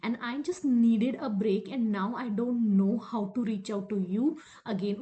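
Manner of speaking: very slow, deliberate explanation; measured channelled message; lover's message. Acted. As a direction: spell it out slowly as the absent lover. Voices absent lover's message.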